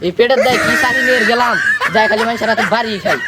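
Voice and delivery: shouting. Acted. Complaining after beating.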